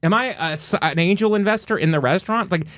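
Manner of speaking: high-pitched incredulous pushback; indignant retort. Retold or imitated. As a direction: question it in high, mock disbelief. Acted indignant retort to waitress.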